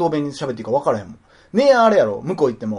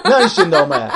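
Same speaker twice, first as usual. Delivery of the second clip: mock New Yorker; 6 dB louder than usual. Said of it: "ニューヨーク育ちっぽい".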